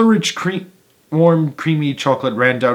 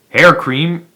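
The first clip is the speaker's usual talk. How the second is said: louder disbelieving rise; incredulous cry; 5 semitones higher, 5 dB louder than usual. A narrator's reading. Mike Teavee doubting Wonka, incredulous cry. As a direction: scoff at it in surprise. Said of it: "cried Mike T V".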